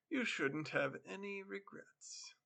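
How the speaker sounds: a sly, chilling hushed warning; menacing whisper. Acted. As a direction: whisper the threat, slow and soft. Stranger menacing debtor quietly.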